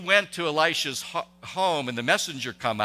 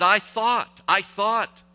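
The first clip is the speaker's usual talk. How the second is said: raised, louder indignant "I thought, I thought"; furious; 7 semitones higher, 6 dB louder, slower than usual. Retold or imitated. Offended captain Naaman fuming at the prophet, angry. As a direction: fume the words out like an offended captain. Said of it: "he was furious".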